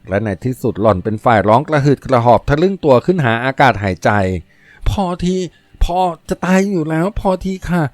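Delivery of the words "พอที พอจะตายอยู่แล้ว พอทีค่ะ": high, breathless gasping protest; panting, out of breath. A narrator's reading. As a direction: pant it out between breaths after the kiss. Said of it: "หล่อนหอบถี่". (พูดหอบถี่ เสียงสูง)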